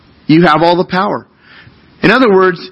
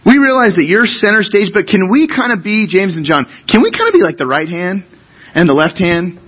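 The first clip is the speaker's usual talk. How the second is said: wheedling brothers; 3 semitones higher than usual. Retold or imitated.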